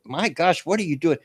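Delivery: high, exasperated my gosh; disbelief. Real, not acted. Streamer reacting to a driver walking across lanes, exasperated disbelief. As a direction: react in disbelief at a reckless choice. Reacting to man crossing highway.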